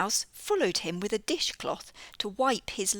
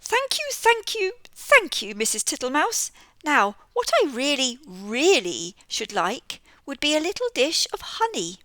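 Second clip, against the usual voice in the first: high, loud fawning toad; 6 semitones higher, 6 dB louder than usual. Acted. Mister Jackson the toad wheedling Missus Tittlemouse for honey.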